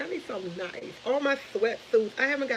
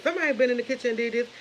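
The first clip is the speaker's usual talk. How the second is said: fast, higher-pitched retold accusation; mock yelling; 4 semitones higher, faster than usual. Mom insisting to son someone was in the kitchen, mock yelling. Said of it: "I got to yelling at him".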